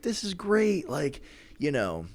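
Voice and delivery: a scared vampire trying to sound friendly; nervous Dracula voice. Retold or imitated. Dracula backing up from the werewolf, high stammering mock voice. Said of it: "And he's like".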